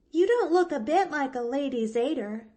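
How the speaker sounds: put-on high, eager little girl voice, a catch in the breath; a small orphan girl bravely glad; young girl Pollyanna. Orphan girl to Nancy, high and earnest.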